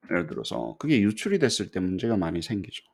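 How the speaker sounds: usual speaking voice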